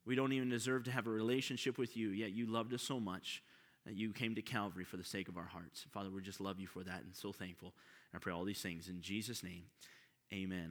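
soft, low prayer voice; hushed reverent prayer. Acted. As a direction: pray quietly and humbly to the Father. Opening prayer before the sermon.

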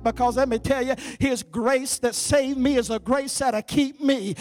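emphatic sermon delivery; forceful preaching. Real, not acted. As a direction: drive each assurance home to the congregation.

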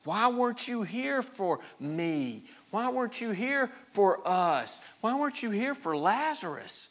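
high, plaintive questioning; acted aggrieved lament; pleading reproach. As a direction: plead for a reason, each question drawn out. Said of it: "they're questioning his concern and his care".

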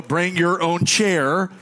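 slow, spelling "bring your own chair" out word by word; slow spelled-out punchline; spelled-out emphasis. Shown as a demonstration. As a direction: drag each word so they get the joke. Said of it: "B Y O".

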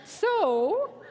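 exaggerated, drawn-out talking to a foreigner; mock the agent slowing right down; imitated slow speech. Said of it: "started to speak so slow".

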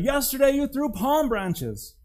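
slow, high, loud reproach; donkey reproaching the crowd, slow and loud; wounded protest. Acted. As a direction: drag it out, hurt and outraged.

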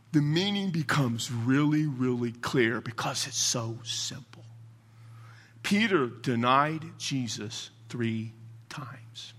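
slow, softening delivery for weight; hushed emphasis. Real, not acted. Preacher slows for his key point.

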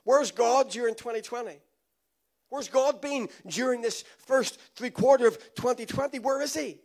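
loud, fretful questioning; mock the worried online crowd; anxious social media voices. Preacher mimicking Facebook doubters, loud and fretful. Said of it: "all you hear over Facebook and over social media is".

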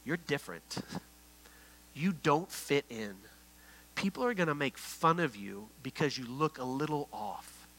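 hushed but voiced taunt; imitated sinister whispering. The enemy planting doubts in a little girl, mock whispering. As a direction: plant doubt softly, not a true whisper. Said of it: "The enemy was whispering to her".

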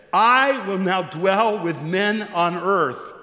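a hint of a slow proclamation from the throne; voice from heaven. Pastor voicing the voice from the throne, lightly proclaimed. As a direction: read it slow, as a heavenly announcement. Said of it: "the voice said".

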